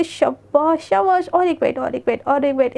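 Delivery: a light, affectionate cheer, understated; lovingly coaxing. Acted. Radhika sweetly coaxes Devika to take another bite. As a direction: coax sweetly like feeding a child. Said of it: "बड़े प्यार प्यार से खिलाती है".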